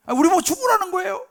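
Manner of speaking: high, loud outburst of protest; 원망과 불평. Acted. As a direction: burst out complaining as the aggrieved people. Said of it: "원망과 불평이 막 터져 나오는 거예요". (원망하듯 목소리 높여 따지기)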